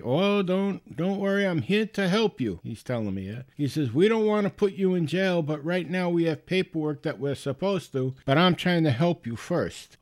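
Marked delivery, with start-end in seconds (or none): 0.0-2.6 higher-pitched imitation of a soothing caller; reassuring scam caller. Scammer reassuring the supposed victim. 3.9-10.0 lightly imitated caller, pitched up; persuasive scam caller. Scammer's retold threat and offer.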